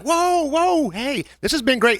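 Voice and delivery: alarmed calming. Retold or imitated. Calming a yelling drunk friend.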